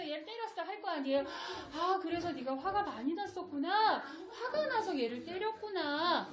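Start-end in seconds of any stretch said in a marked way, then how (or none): 1.7-6.3 put-on calmly name the child's feeling back; reading feelings. Shown as a demonstration. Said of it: "요걸 읽어주셔야 돼요".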